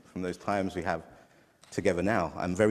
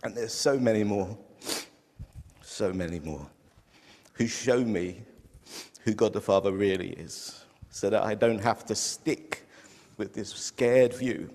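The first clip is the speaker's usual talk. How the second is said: moved to tears, pausing between phrases; crying. Real, not acted. Speaker telling congregation who showed them God, crying. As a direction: push on through real tears. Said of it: "I apologize for crying".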